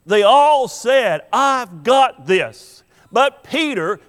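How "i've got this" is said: slow, firm, proud boast; passionate boast. Acted. Peter boasting to Jesus, slow and firm. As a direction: lean on got as if certain. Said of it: "Peter says it with passion".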